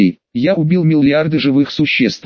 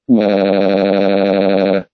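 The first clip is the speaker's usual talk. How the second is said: long, low wail held on one note; droning, unvarying "waah" in place of sobbing; mock wail; 7 semitones lower than usual. A narrator's reading. Narrator voices Raven breaking down before his aunt, mock wail. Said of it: "Я разрыдался".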